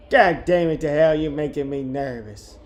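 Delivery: lightly voiced irritated woman, loud start falling away; first rough try at an exasperated woman; woman's voice attempt. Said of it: "How do I do a woman's voice".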